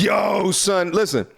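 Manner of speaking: sudden call for attention. Real, not acted. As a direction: shout to grab the room. Streamer calls out to grab attention.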